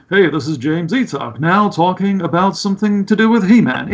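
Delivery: lightly put-on heroic voice; a hint of a cartoon hero. Shown as a demonstration. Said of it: "me clearly putting on a heroic voice".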